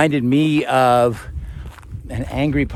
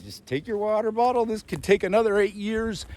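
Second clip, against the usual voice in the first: dry joke; 8 semitones higher, 7 dB quieter than usual. Retold or imitated. Joking aside to girl, soft high.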